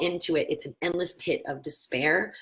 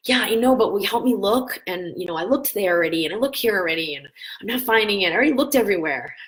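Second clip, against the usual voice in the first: imitating husband, higher and louder, mildly frustrated, faster at the end; worked-up husband; 3 semitones higher, 4 dB louder, faster than usual. Husband pleading for help finding battery, mock frustrated. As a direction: rush it like a flustered man who's looked everywhere. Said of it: "he's getting all worked up".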